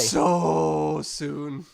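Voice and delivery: long drawn-out "so", eager; excited anticipation. Real, not acted. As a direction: stretch the first word with longing. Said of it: "You sound excited".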